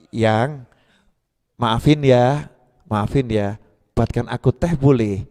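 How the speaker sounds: low, soft coaxing to the wife; sweet-talking husband. Acted. Husband sweet-talking his wife for tea, soft and low. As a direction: coax her gently for tea. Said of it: "ke istri kan ngomongnya".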